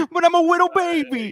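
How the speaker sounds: put-on very high, squeaky baby voice; babyish whine. Joining the bit as Shang Tsung, high baby whine. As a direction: plead like a helpless little baby.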